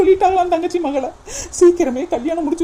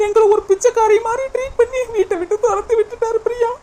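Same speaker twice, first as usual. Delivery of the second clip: crying, high-pitched; 6 semitones higher than usual. Acted. Sister retells being thrown out.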